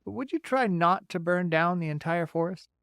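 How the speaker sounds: bright, folksy beaver. Acted.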